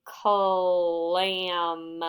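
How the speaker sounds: Clam drawn out long and slow; bubblegum stretch. Shown as a demonstration. Teacher to class, stretching the word slowly. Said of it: "say that slowly and bubblegum stretch it".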